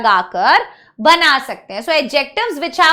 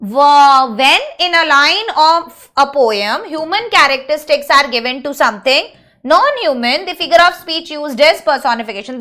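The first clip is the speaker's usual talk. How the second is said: English sentence dictated slowly word by word; slow dictation; much slower than usual. Acted. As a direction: read it out slowly for the class to write. Dictating a question-answer to class. (धीरे-धीरे लिखवाना)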